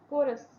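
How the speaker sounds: "कोरस" opening on a क sound. Shown as a demonstration. Teacher explaining the C sound, "कोरस" starting with K. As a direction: begin "कोरस" with a hard K. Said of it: "सी को यहाँ पे आप को की".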